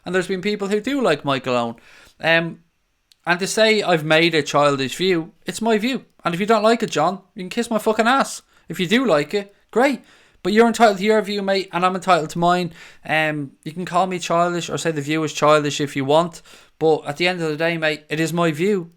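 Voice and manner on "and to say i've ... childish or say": raised, higher-pitched voice, getting worked up; heated rebuttal. Real, not acted. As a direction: push back hard at the commenter. Answers a critic in chat.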